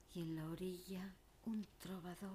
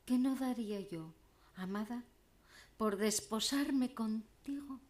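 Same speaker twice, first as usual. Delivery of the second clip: elegiac declamation. Acted. Troubadour begging his beloved Siana to marry him, elegiac declamation. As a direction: declaim it as a lovelorn troubadour's entreaty. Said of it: "declamando poesía elegiaca".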